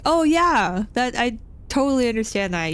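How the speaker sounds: high, overdone polite "oh yeah"; put-on people-pleasing voice; over-eager agreement. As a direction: agree too readily, starting high and easing down. Acted polite agreement with repairman.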